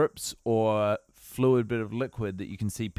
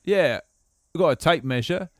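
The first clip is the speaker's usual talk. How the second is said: put-on English accent. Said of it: "talking like this".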